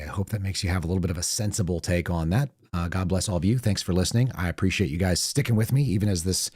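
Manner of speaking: hoarse, thin, worn-out voice; raspy reedy voice. Real, not acted. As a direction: talk through a raspy, reedy throat. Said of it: "this, uh, raspy, reedy voice thing goes on".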